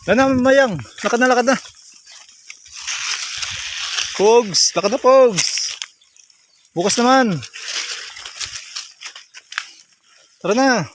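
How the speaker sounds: high, sing-song call to the goats; calling animals. Real, not acted. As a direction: coax the goats home, calling out. (pagtawag sa mga kambing)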